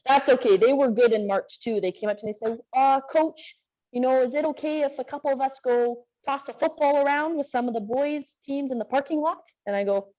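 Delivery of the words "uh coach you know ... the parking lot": higher-pitched, lightly voiced teen request; imitating players asking permission. Players ask coach about tossing a football, lightly imitated. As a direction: lightly play a girl asking the coach's okay. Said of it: "and they asked permission".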